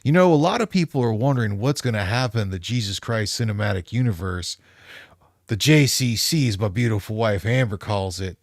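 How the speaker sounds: lightly voiced preachy youth pastor; a hint of an eager youth pastor, rising to a loud cheer; upbeat youth pastor. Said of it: "Youth pastor voice".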